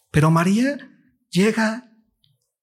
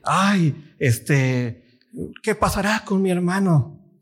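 doubting lament; 4 semitones higher, slower than usual. Retold or imitated. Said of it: "No es un dolor de".

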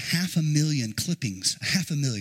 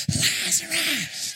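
drawn-out higher call of the name; stronger call; 10 semitones higher, much slower than usual. Pretend. Preacher urging the congregation, drawn-out call. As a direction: do better, call him properly. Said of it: "Do better than that".

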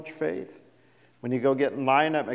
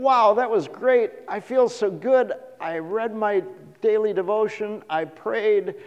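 self-satisfied; 8 semitones higher, 5 dB louder than usual. Retold or imitated. Pleased believer after day one.

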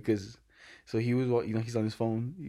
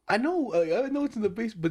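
mock exasperation; 9 semitones higher than usual. Retold exasperated reply to coworker.

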